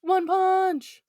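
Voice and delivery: high, drawn-out mock battle cry; playful high attack shout; attack call. Calls out anime-style attack name.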